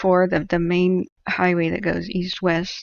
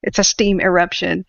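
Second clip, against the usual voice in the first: alarmed disbelief; 5 dB louder than usual. Retold or imitated. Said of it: "He goes".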